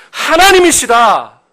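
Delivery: high, loud, drawn-out declaration; slow, ringing sermon climax; loud proclamation. Real, not acted. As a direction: proclaim the answer at full preaching force. Preacher proclaims the answer, then softens.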